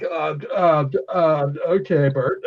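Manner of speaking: lightly voiced dazed stammer; dazed henchman. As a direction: act stunned after hitting a wall. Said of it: "he has no idea what the hell just happened".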